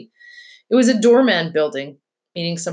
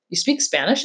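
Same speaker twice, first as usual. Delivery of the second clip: mildly astonished question, pitch climbing; a touch of amazed disbelief; 3 semitones higher than usual. Acted. Charlotte learns her friend speaks Spanish, mildly astonished. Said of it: "I said, astonished".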